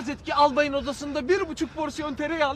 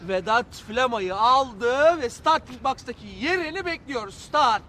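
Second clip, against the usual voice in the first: race commentary. Pretend. Calling Vedat's dash to listeners as a race, mock commentary. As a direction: call it like a horse race, rising in excitement.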